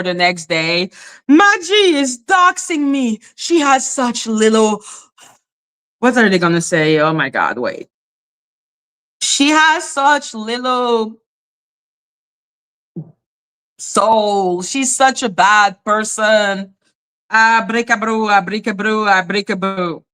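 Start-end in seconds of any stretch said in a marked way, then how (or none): 1.3-4.8 mock Irish accent, opening high and dropping; hammed-up Irish accent complaint; dramatic Irish voice. Mocking a woman complaining that Maggie doxxed her, dramatic Irish voice. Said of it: "her fucking dramatic Irish voice". 9.2-20.0 lightly faked Irish accent trailing into gibberish; dramatic Irish voice. Mocking the woman's complaint about Maggie, dramatic Irish voice. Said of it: "her fucking dramatic Irish voice".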